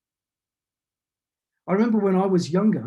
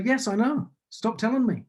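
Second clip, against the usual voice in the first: higher-pitched retort of a fed-up mum; mock maternal exasperation, pitched up; exasperated mother; 5 semitones higher than usual. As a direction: imitate your mother telling you off. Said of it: "And she'd say".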